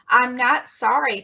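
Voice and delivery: slow, choked protest; a hint of tearful defiance; with a choke. A narrator's reading. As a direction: force it out through a lump in the throat. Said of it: "protested Jo with a choke".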